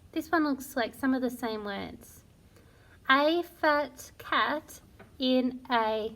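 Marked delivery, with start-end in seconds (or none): 3.1-6.1 slow, word by word; slow reading aloud. Shown as a demonstration. Teacher reading the ditty slowly to children. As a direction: read each word slowly and clearly for beginners. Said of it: "I'm going to read it for you now".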